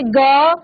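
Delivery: ग drawn out so its अ vowel shows; teacher stressing ग and its trailing vowel; letter sound demo. Shown as a demonstration. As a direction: sound out ग as an open "gaa". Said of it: "अ का स्वर आ रहा है".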